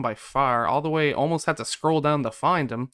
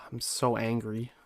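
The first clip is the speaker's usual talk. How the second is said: slow, softer, held-back anger; holding in anger; 3 semitones lower, 7 dB quieter than usual. Real, not acted. Gamer after another playoff beating, holding in anger. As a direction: keep the anger in, low-key and slow. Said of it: "I'm trying to hold it in".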